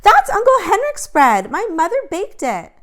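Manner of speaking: high, loud indignant protest; loud, high outraged girl; angry. A narrator's reading. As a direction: scold him for spoiling the bread. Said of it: "she said angrily".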